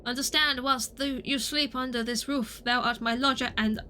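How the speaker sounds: put-on lightly theatrical old-English orator; mock-formal olden-days delivery; archaic speaker. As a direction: declaim it like a stage thespian. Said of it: "Why did you start talking like this?".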